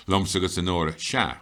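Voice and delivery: "Sha" held and punched at the end; stress on Sha. Shown as a demonstration. Teacher repeating the pattern for learners, stressing "Sha". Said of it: "that's what you use".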